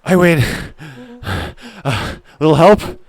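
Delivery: loud, panting bursts between breaths; winded boasting. Acted. Racer claiming victory after a run, out of breath. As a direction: boast while acting out of breath.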